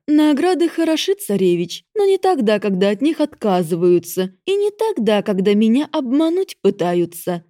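loud, high menacing goddess. Acted. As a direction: tower over him with scorn. Goddess answers Ivan.

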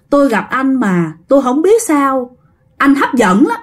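put-on halting old man with a light Northern Vietnamese accent; long pauses between phrases, lightly voiced Northern Vietnamese elder. Spirit explains himself to the driver, old Northern Vietnamese man. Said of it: "ông già nói".

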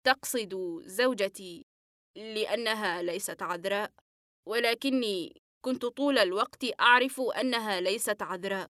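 head bowed, voice gone rough; patient answers hoarsely, head down. Acted. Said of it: "وقال بصوت مبحوح".

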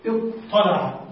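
اطلع said slowly with the ط merged and doubled; model pronunciation. Shown as a demonstration. Teacher models اطلع for the class, carefully articulated. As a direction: say اطلع clearly, one heavy doubled ط. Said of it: "فنقول هكذا".

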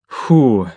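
voiced "phew" of relief; acted heavy breath out; noisy exhale. A narrator's reading. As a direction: let out a long, audible "whew". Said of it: "шумно выдохнул".

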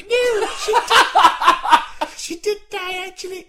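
high grandma scolding; Doreen old lady voice. Pretend. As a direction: nag high like an old wife.

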